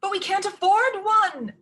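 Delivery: high, loud plaintive cry; plaintive stepmother. A narrator's reading. Stepmother pleads with Ella, high and plaintive. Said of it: "raising her voice plaintively".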